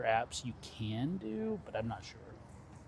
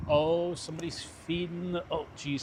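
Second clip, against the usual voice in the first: jolted by bumps while riding; on a bumpy road; 4 semitones higher than usual. Real, not acted. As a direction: voice jostled over bumps. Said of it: "sorry for the bumps".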